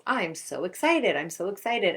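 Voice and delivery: excited self-talk. Shown as a demonstration. An athlete before a test, telling herself she's excited. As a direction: pump yourself up, deliberately. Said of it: "One group was supposed to think to themselves".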